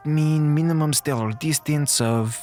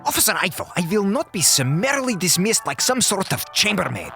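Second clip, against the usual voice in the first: higher-pitched, offended outburst; indignant protest; 5 semitones higher than usual. Acted. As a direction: protest at being brushed off. Indignant doctor protests being dismissed.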